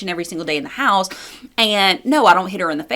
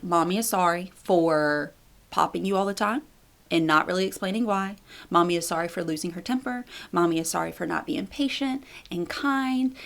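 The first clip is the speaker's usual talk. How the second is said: put-on soft, gentle apology to a toddler; very calm; 6 dB quieter than usual. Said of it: "very, very calm".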